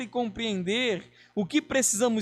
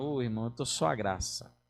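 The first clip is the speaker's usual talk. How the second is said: soft, gloomy, theatrically sad, mopey tone; 12 semitones lower, 7 dB quieter than usual. Acting out someone with a sad face answering a greeting, in mock-sad, gloomy tone. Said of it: "faz mais aquele teatro com aquela cara bem triste".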